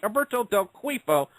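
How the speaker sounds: Alberto Del Cuifo said through a laugh; chuckling Alberto Del Cuifo; laughing repeat. Shown as a demonstration. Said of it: "one more time for prosperity".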